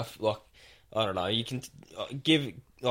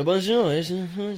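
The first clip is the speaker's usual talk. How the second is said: put-on higher-pitched joke French accent; mock French; 8 semitones higher than usual. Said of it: "some fucking French bloke chatting".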